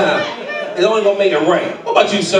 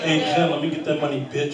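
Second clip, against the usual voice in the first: mock street hustle; 8 dB quieter than usual. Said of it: "Say what you said to her".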